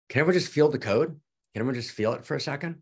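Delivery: host rallying listeners to feel it; eager appeal. Real, not acted. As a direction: rush to rally everyone. Urging the audience.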